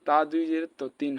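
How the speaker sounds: তিন with a light dental t; thin t, pure i in তিন; plain ta. Shown as a demonstration. Teacher showing the confused letter, তিন with light t. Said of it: "তাহলে দেখেন".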